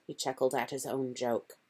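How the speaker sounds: plain reading voice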